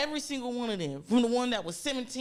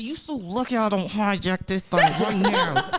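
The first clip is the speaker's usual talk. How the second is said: laughing threat; 2 semitones lower, 6 dB louder than usual. Retold or imitated. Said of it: "and I said".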